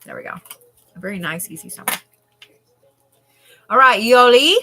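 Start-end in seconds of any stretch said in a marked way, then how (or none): 3.7-4.6 loud, high call to the next person; big raised-voice summons. Real, not acted. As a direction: sing out the name with a rising end. Calling next viewer by name.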